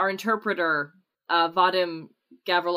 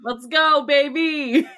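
higher, louder whoop; excited cheer; 8 semitones higher, 6 dB louder, slower than usual. Real, not acted. Player cheering as the story heads to Pessoa, loud and excited. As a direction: hype the table up, louder.

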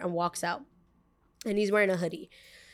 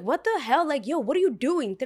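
shocked; 5 semitones higher than usual. Retold or imitated. Pushed man reacts shocked.

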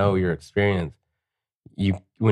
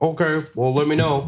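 mock dismissive brush-off; 8 semitones higher than usual. Dismissive artist brushing customer off.

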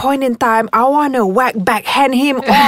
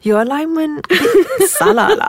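lighting guy; 7 semitones higher than usual. Retold or imitated. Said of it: "he looks up at me and goes".

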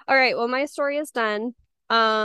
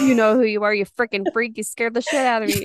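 laughing off fear; faster than usual. Real, not acted. Laughing at the creepy ex.

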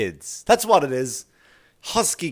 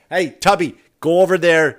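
louder, bossy shooing; pushy salesman; 4 semitones higher, 7 dB louder than usual. Pretend. Salesman shoving the customer to the fat bikes, loud and bossy. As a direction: wave him off to the side.

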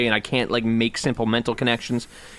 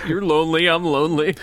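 mock persuasive plea; 6 semitones higher than usual. Voicing the imagined call to an ex.

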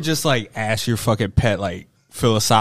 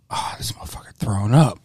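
hushed realization in the dark; whispered aside; faster than usual. Retold or imitated. Roommate half asleep in bed hearing the cat, whispering. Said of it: "and I'm like".

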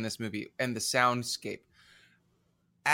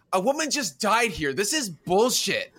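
higher, wild unhinged ranting; crazy person voice; 5 semitones higher, 3 dB louder than usual. Retold or imitated. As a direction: rant it like someone unhinged. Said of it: "I do my impression of a crazy person".

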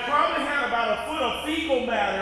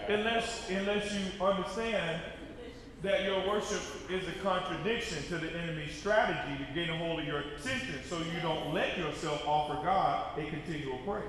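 dropped voice; 6 semitones lower, 7 dB quieter than usual. Real, not acted. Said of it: "preacher drops voice low".

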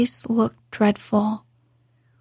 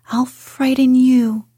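louder, shouted repeat of the threat; 2 semitones higher, 6 dB louder than usual. Acted. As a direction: shout it at him. Mary repeats threat, builds up.

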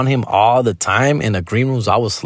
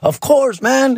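Joy Coy voice; 10 semitones higher, slower than usual. Retold or imitated. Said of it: "He's like".

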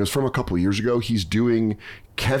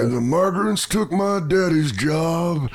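higher, slow mock rock-star growl; slow working-man rock-star lament; comic doing a right-wing rock-star bit; right-wing rock singer; 6 semitones higher, slower than usual. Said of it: "right-wing rock singer".

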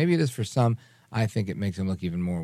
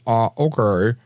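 impression of McConnell; 6 dB louder, slower than usual. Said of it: "I'm doing an impression of him".

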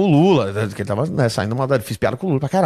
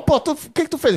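much higher, alarmed question; retold alarm, pitched way up; alarmed friend; 13 semitones higher than usual. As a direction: demand to know what went wrong. Friend alarmed asking what happened.

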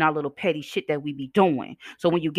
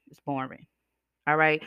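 normal talking voice

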